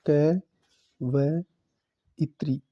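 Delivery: क, व, इत्री with long pauses between; syllable by syllable. Shown as a demonstration. Teacher spelling it out for students: क, व, इत्री separately. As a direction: break the word into क — व — इत्री. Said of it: "कवियत्री लिखा जाएगा".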